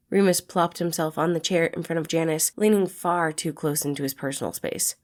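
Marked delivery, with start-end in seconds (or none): none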